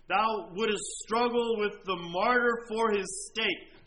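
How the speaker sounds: slow, loud, grieving lament; anguished lament. Retold or imitated. Preacher voicing a dying agnostic's remorse, slow and anguished. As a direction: mourn each line as the damned man. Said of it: "his smitten conscience cried".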